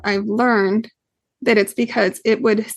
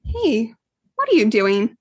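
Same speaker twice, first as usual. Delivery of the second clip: gentle curious question. Retold or imitated. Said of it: "now I know if I come to him and say".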